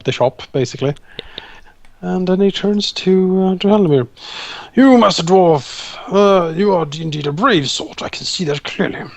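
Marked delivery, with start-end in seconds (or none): 4.7-9.0 lightly voiced old captain. Old captain praises the dwarf.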